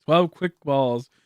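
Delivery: slow, sarcastic, unimpressed. Pretend. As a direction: fake enthusiasm, clearly let down. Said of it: "It's like".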